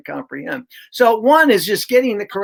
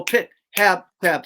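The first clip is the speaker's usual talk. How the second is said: quick fluent syllables; slower than usual. Shown as a demonstration. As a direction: say pit, hab, pab smoothly with no breaks. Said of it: "We gotta get them to go".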